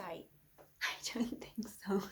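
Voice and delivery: slow breathy whisper, drawn out; menacing whisper. Acted. Taunting the co-host in a slow menacing whisper. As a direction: lean in and breathe the threat slowly. Threatening to stab Devon.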